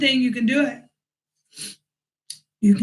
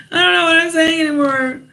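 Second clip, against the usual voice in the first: laughing; 4 semitones higher, faster than usual. Real, not acted. Flustered after going blank.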